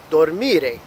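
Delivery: "Dormire" stressed on MI, the second syllable. Shown as a demonstration. Teacher repeating for learners, second syllable MI of "Dormire" stressed. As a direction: put the weight on MI in "Dormire". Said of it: "it's falling on the second syllable".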